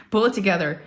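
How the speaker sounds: chuckling through a mock husband line; laughing husband quote. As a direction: laugh while quoting him. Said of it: "He goes".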